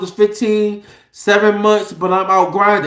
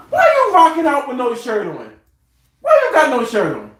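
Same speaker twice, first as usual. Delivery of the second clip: playful high-starting scolding, falling away; mock scolding; 4 semitones higher than usual. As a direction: pretend to tell off your kid. Mock scolding of son who appears.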